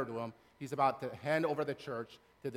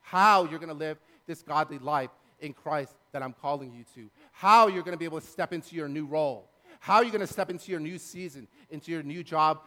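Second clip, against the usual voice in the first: louder preaching, hitting each "how"; Paul's emphatic promise; 7 dB louder than usual. Acted. Preacher voicing Paul's promise to guide them, emphatic. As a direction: build insistently on the repeated "how". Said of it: "And Paul says".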